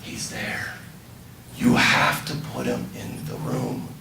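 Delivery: soft, almost whispered encouragement; gentle hushed coaching. Retold or imitated. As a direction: coax her quietly to picture him. Retells coaching a woman in prayer.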